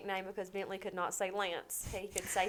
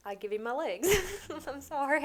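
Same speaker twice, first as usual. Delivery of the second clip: breaking into tears; 6 semitones higher, 5 dB louder than usual. Real, not acted. Mother wishing her legs on son, breaking down. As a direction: voice lifting into a real sob.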